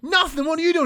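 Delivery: high, loud cheerful greeting; dad answering his son James, high and excited; playful reply. Retold or imitated. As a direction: answer back full of bounce.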